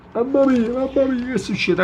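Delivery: sudden alarmed high exclamation; startled. Real, not acted. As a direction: react to a sudden crash. Sudden crash during recording.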